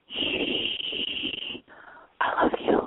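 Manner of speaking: breathy whispered aside; whispering. Real, not acted. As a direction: hush them, then whisper it close.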